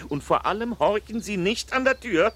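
stern warning. Acted. Master warning his housekeeper off eavesdropping, loud and stern. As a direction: hammer home the order not to listen at the door.

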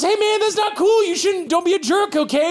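high pleading comic voice; hurt comedian. Acted. Comedian begging his parrot to behave, high voice. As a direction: whine at the parrot to stop. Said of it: "Wally says".

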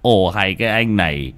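loud, pressing urging; urging father. Acted. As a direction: hurry and push him to eat. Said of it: "giọng thúc giục".

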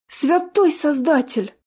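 high, slow shocked gasp. A narrator's reading. Jessica learning the consequences, shocked gasp. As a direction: gasp it in horror. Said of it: "ахнула Джессика".

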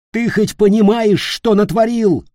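high, loud accusing shout; furious yell. Acted. Peter raging at Leroy, loud and high. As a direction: rage at him.

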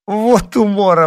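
high, loud, drawn-out crowing; gleeful high-pitched cry; amused exclamation. A narrator's reading. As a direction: crow with delight at a successful prank. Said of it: "воскликнула она".

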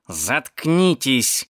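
very slow, restrained irritation; through gritted teeth. Acted. Cat silences the moaning onlookers, through gritted teeth. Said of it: "процедил кот сквозь зубы".

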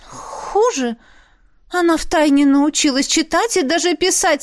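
high, sulky tattling noblewoman; sulky concubine. Acted. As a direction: tattle on the princess, pitched high. Concubine tells tales.

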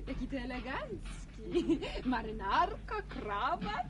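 laughing, teasing compliment; amused admiration. Acted. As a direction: admire the outfit through giggles. Śmieje się, witając eleganckiego Edka. (rozbawiony podziw ze śmiechem)

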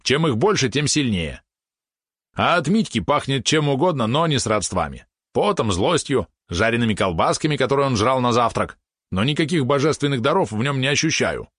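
high, emphatic expounding; opinionated little companion. Acted. Companion tells what he smells on the brother, opinionated. Valeron's lines voiced in narration.

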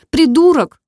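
high, loud insult, a hint of a sob; sobbing. A narrator's reading. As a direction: spit it out tearfully. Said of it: "всхлипнула она". (высоко и громко, с намёком на всхлип)

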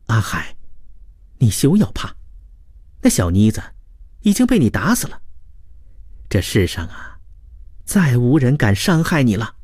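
a touch of tender reassurance; lightly voiced devoted woman. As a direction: gently coax him out of fear. (女子温柔地安抚)

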